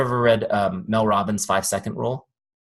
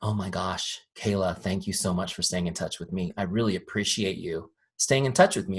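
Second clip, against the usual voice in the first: imitated grateful client; 3 semitones lower, 5 dB quieter than usual. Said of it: "is they say".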